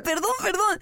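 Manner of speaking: a hint of impatience; rushed apology. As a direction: rattle it off to end the argument.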